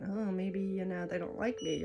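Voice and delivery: soft, hesitant inner voice; quietly imitating someone's self-doubt; imagined self-doubting thought. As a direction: voice a worried thought, softly. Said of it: "you might be thinking".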